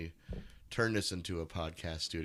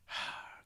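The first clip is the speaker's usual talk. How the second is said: reluctant exhale; weary sigh; 6 dB quieter than usual. Retold or imitated. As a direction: sigh as if dreading work. Retold dread of getting a gig.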